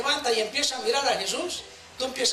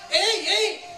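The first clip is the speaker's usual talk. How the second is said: higher-pitched mock hail; calling for attention; 5 semitones higher, slower than usual. Jesus identifies himself to the disciples, mild high call. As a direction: call out lightly to get their attention. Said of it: "Está llamando la atención".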